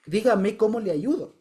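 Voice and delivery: earnest, drawn-out plea to be useful; genuinely interested. Retold or imitated. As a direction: ask slowly, really wanting to help. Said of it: "genuinamente interesado".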